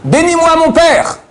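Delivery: hoch und langsam flehend, eine Spur Weinen; Esaus weinende Bitte. Acted. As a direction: fleh den Vater langsam und hoch an. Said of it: "lorsque Esav rentre et se met à pleurer".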